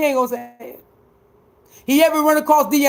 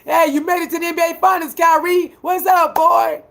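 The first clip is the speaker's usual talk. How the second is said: fake friendly greeting; 5 semitones higher than usual. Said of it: "Soon as they see him".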